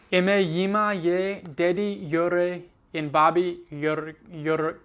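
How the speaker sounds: slow, halting reading aloud in Slovene; slow careful reading. Acted. Student reads Charlie and the Chocolate Factory aloud, slowly. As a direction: read each word out slowly, syllable by syllable.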